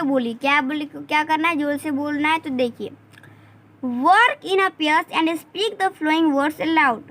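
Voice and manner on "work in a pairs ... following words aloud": slow, spaced-out reading of the task; slow classroom reading. Shown as a demonstration. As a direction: read the instruction slowly for the class. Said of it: "जोर से इनको बोले".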